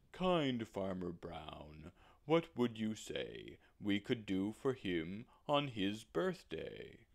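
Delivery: slow, lowing cow voice; drawn-out kindly cow; gentle cow. Acted. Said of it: "the spotted cow said".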